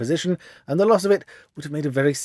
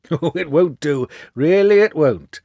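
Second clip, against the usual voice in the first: smooth, slow and assured, louder on won't; suave; 4 semitones higher, 7 dB louder, slower than usual. Acted. Holmes coolly telling cornered Windibank there's no escape, suave. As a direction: purr it with easy confidence. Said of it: "said Holmes suavely".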